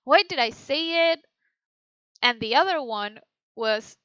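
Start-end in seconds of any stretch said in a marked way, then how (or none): 0.0-1.2 annoyed. Shown as a demonstration. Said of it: "I'm so annoyed".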